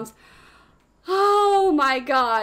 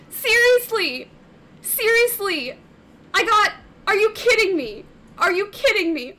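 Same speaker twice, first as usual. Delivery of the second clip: incredulous; 4 semitones higher than usual. Real, not acted. Cannot believe the luck.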